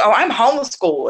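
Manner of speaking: lightly imitated proud child. Homeschooled kid asked about school, lightly proud. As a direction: say it with easy, unashamed pride. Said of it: "like, proudly".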